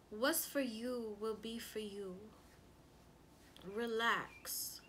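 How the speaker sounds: slow, measured comforting advice; unhurried soothing, lightly acted; retold calm reassurance. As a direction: imitate a son gently settling his mother. Son calms his upset mother.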